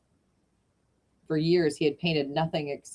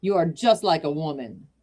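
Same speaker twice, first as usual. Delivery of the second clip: put-on louder gruff German accent; German accent yell; 4 dB louder than usual. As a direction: bark it back in a German accent. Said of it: "yelled Berman".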